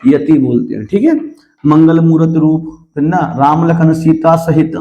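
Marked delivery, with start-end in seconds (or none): 1.7-2.9 slow reading of "मंगल मूर्त रूप"; demonstrating where the pause falls; slow verse recitation. Shown as a demonstration. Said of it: "यहाँ पर रुके". 3.2-4.7 slow "Ram Lakhan Sita सहित", then a stop; marking the yati at the comma; pause after the phrase. Shown as a demonstration. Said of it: "यहाँ पर रुके".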